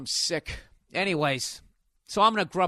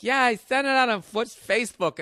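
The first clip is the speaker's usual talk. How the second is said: imitating Nia; 10 semitones higher, 6 dB louder than usual. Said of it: "And she's like".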